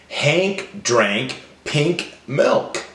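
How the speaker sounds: slowly, a gap after each word. Shown as a demonstration. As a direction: sound out each final K. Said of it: "they all end with the same sound".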